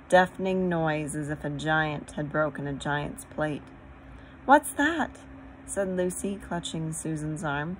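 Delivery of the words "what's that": startled, high and louder question; alarmed. A narrator's reading. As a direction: jump at a sudden noise. Lucy startled, clutching Susan's arm.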